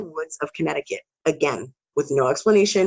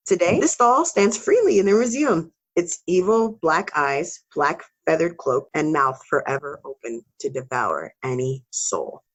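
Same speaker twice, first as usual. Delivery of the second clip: creepy voice. Acted. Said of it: "Don't do that creepy voice".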